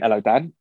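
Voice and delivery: Hello, Dan with a gentle questioning rise on Dan. Retold or imitated. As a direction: mimic the puzzled phone greeting, lifting at the end on Dan. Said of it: "he'd always have, like, a quizzitive answer".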